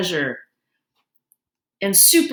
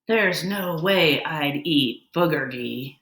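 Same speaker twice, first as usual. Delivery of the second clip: put-on slow, lower taunting kid voice; a slow, lower schoolyard taunt; mocking sneer; 5 semitones lower, slower than usual. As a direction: drag it out to make fun of him. Madison mocks Justin's lunch.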